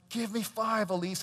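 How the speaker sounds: a hint of eager school greeter; cheery greeter. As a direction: coax a shy child. Greeters acted coaxing the child.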